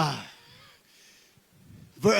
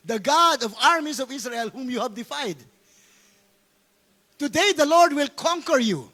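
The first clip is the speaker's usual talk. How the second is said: David's reply; 4 semitones higher, 4 dB louder than usual. Acted. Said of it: "David replied to the Philistines".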